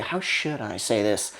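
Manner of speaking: lightly voiced nervous newcomer; overthinking actor. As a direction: mutter the line over to yourself, unsure. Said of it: "get in your own head thinking".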